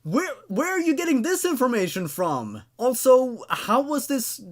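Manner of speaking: can't believe what they're reading, voice jumps up; incredulous outburst. Real, not acted. Reader reacts to story's nonsense.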